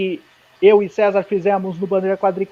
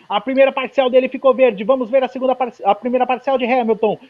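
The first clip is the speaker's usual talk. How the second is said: live play-by-play of a qualifying lap; motorsport commentator. Real, not acted. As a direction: call the lap as it happens.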